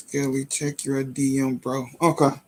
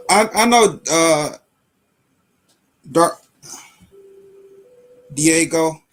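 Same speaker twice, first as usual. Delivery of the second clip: calling out loud; 8 dB louder, slower than usual. Real, not acted. Calling out to viewer, louder.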